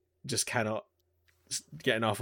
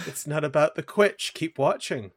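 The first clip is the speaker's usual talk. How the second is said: light imitation of "It's not about the quitch", quitch said as kwitch, ending on a rise; playful repeat of the comedy line with a rising end; quoting Ryan George; 4 semitones higher than usual. Friend repeats the Ryan George line, playfully. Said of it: "It is a Ryan George thing".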